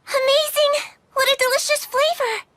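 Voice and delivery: high, delighted exclamation; delighted amazement. Acted. Tasting grandma's potato mochi, delighted amazement. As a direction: exclaim with rising wonder at a first taste.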